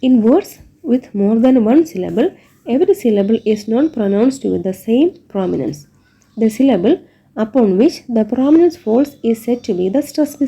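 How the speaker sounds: reads the textbook definition word by word, very slowly; slow dictation reading. Shown as a demonstration. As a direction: dictate it slowly so the class can write it down.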